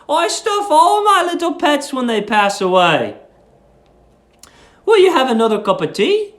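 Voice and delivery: lightly voiced sweet old lady; sweet landlady. Landlady's dialogue read aloud.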